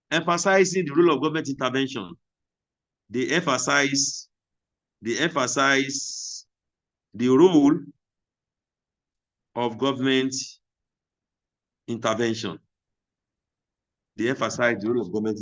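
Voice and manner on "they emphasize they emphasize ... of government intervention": slow, word by word, with long gaps; teacher dictating at writing speed; slow dictation. Shown as a demonstration. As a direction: spell it out slowly for note-takers. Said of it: "teacher dictating to class".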